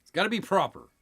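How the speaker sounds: light mock British accent; a hint of posh British accent. Joking about pinky fingers in a mock British accent. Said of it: "Very British".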